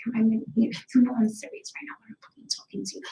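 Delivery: fast, soft menacing mutter; inner mean voice. Shown as a demonstration. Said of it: "You wanna fucking hear me?".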